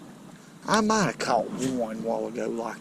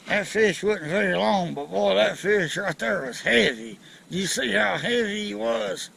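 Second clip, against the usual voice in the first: higher, lips barely moving, lightly imitated old uncle; Uncle Clevis voice; 5 semitones higher than usual. Fisherman imitating his uncle's way of talking, a bit higher with barely moving lips. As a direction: mimic an uncle who never moved his lips much. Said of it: "this is how my Uncle Clevis used to talk".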